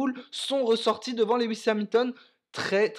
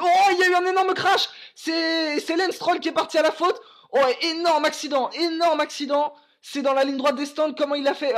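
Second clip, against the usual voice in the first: crash called much higher and louder; excited crash call; 5 semitones higher, 5 dB louder than usual. Real, not acted. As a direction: shout the crash as it happens. Sudden huge crash called live. (annonce du crash, très excitée)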